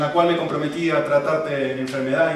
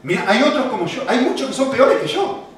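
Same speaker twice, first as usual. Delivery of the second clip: defensive husband; 5 semitones higher, 3 dB louder than usual. Acted. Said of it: "Simplemente está diciendo".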